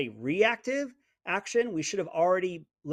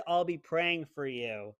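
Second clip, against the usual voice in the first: mock pious sarcasm; slower than usual. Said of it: "that's not a compliment".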